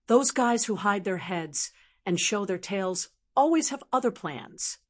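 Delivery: muffled voice from inside armor. Acted. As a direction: keep the sound muffled and dull. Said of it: "said in a muffled voice".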